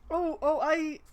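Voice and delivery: loud, quick oh oh; the idea just hit; excited realization. Real, not acted. Streamer realizing he can betray her, excited.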